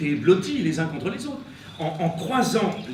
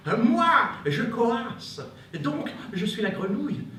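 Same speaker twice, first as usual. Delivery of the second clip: frog voice; 5 semitones higher than usual. Acted. Frog character speaks.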